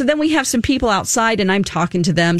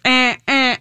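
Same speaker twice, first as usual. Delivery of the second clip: imitated alarm beep; 3 semitones higher than usual. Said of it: "It's like".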